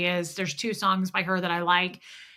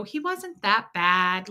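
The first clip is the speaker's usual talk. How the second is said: dismissive excuse; slower than usual. Retold or imitated. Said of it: "I used to make excuses".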